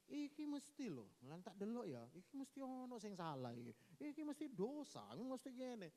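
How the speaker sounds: mock judging friend. Preacher mimicking visitors blaming the sick man. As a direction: sneer like a nosy visitor.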